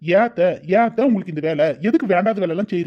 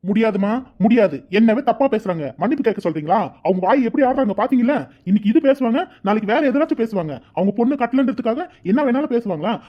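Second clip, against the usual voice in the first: heated, slightly raised complaint; angry refusal; 2 semitones higher than usual. Acted. Son refusing to apologise to aunt, angry. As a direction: refuse outright and keep arguing.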